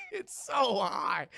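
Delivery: high, laughing yell of disbelief; slow shout breaking into laughter. Real, not acted. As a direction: laugh through the outraged repeat. Repeating it while laughing.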